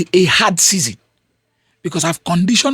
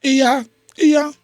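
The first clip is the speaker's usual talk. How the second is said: lightly voiced envious onlooker, mostly his own voice; half-hearted imitation of someone coveting a rich man's money; a hint of a wistful, grasping bystander; mock poor mindset; faster than usual. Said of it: "a poor person in his mind will say".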